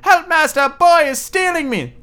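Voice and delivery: very high, loud panicked squeal; magic harp calling the giant as Jack steals it; harp crying for help. Acted. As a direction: shriek for your master. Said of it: "the magic harp cried".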